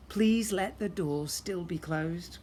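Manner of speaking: slow, pleading second take; desperate plea. A narrator's reading. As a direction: beg it under your breath. Repeated, more desperate.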